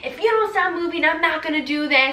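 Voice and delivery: put-on rude, scolding yelling. Retelling how the doctor yelled during the epidural: imitating a doctor yelling. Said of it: "yelling at me".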